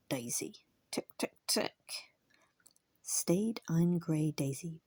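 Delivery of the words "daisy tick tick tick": hushed clicking to the pony; soft coaxing. Acted. Old driver softly clicking his pony on, hushed. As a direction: murmur the name and click her on.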